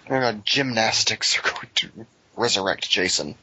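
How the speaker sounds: usual speaking voice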